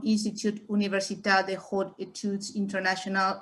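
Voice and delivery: "Institut Universitaire des Hautes Études Internationales" in halting, accented French; clumsy French pronunciation. Real, not acted. Host introducing a doctor, reading a French institute name, clumsy French pronunciation. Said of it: "my French pronunciation, which is horrific".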